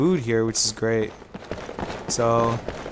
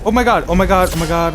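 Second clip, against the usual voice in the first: high, loud repeated oh my god; shrieking jackpot winner; 5 semitones higher, 5 dB louder than usual. Real, not acted. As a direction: shriek it in disbelief. Stunned by huge in-game result.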